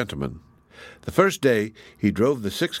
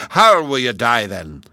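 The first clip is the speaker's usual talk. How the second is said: giant threatening; 6 dB louder than usual. Acted.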